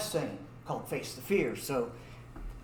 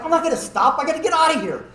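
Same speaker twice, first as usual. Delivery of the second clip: loud, high urgent protest; raised-voice retold panic; frantic refusal; 9 semitones higher, 8 dB louder, faster than usual. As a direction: refuse frantically while trying to flee. Fleeing driver refuses, voiced.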